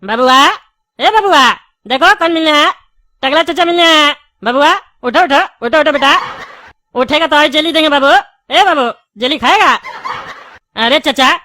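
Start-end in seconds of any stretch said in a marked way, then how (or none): 0.0-9.7 calling loudly. Acted. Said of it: "इतना जोर से चिल्लाने पे तो कोई भी उठ जाएगा।".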